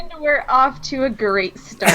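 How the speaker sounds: said with laughter breaking in; real chuckle in the voice; amused irony. Real, not acted. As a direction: laugh through a wry announcement. Host laughs at the ranting.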